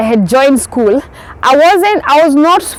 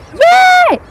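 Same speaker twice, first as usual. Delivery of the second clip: happy yay. Retold or imitated. Felt joy at the train.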